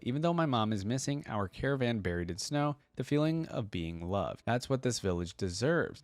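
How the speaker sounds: storyteller's reading voice, even and unhurried; reading a story to viewers; story narration. A narrator's reading. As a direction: read it like a bedtime tale. Reads interactive story aloud.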